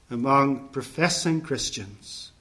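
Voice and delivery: "professing" set apart with slow, deliberate weight; emphasis on professing. Real, not acted. Preacher warning churchgoers, deliberate emphasis on "professing". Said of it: "I emphasize the word professing".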